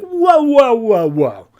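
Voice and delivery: loud, high whoas coming down in pitch; big hammed-up objection, starting at full volume; mock outraged interruption. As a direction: burst in and halt everyone. Forbes barges in, objecting.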